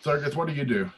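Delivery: high-pitched call into the tavern; mock holler, drawn up high. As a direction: call it out without full volume. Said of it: "you call back into the tavern".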